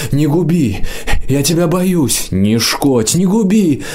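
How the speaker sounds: high, begging squeal for mercy; pleading squeal. A narrator's reading. Конюшник молит Мрака о пощаде: high frightened squeal. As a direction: beg for your life in a thin squeal. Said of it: "взмолился".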